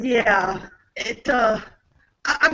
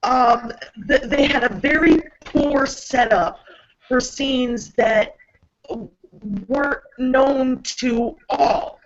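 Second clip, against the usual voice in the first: mechanical, processed-sounding voice; robot voice. Real, not acted. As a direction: talk like a machine through a filter. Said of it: "you kinda sound like a robot with, uh, your robot voice".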